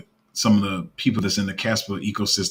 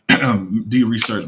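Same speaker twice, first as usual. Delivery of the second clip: real croak in the voice; throat cracking; 4 dB louder, slower than usual. Real, not acted. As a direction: voice catching after clearing the throat. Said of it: "My throat cracking".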